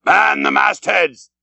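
loud, slow call to the mastheads; iron-voiced order. A narrator's reading. Captain calling up to the crew, loud and iron. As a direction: bellow it like a captain's command. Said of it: "his iron voice was heard".

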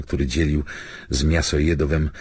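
ordinary delivery, nothing marked

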